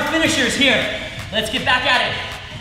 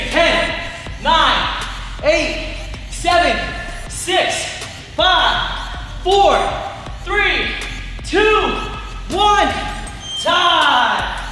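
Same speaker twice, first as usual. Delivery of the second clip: barking gym coach; 4 semitones higher, much slower than usual. Real, not acted. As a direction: drive the count home to the finish. Coach counting down final seconds.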